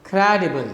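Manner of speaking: "Credible" stressed on CRE, falling away after it; falling rhythm. Shown as a demonstration. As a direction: hit the start of "Credible", let the rest drop. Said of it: "it's a falling rhythm".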